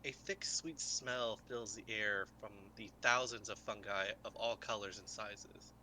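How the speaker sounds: unhurried scene-setting read; game master scene setting. A narrator's reading. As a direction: paint the cavern for the players.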